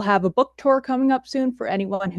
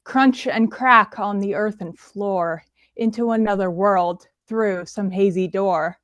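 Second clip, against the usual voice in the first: poetry reading. Acted. Performs her spooky poem.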